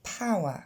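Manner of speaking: power with English ow, no r. Shown as a demonstration. Teacher models power for French learners, clear English sounds. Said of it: "Même chose pour".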